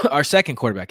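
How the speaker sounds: talking past a tickle in the throat; clearing throat mid-sentence. Real, not acted. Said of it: "Excuse me. Sorry, I got something in my throat".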